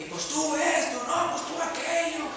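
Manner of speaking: mock quarrel. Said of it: "están gritando porque están enojados".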